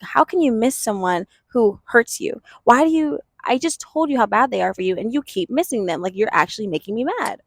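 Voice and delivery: a touch of scolding parent, pitch up a little; mildly exasperated parent voicing; mock angry parent. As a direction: scold the child lightly, half-acted. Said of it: "The parent was angry at the child".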